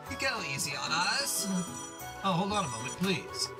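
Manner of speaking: put-on bubbly Valley Girl accent. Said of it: "Valley Girl accent".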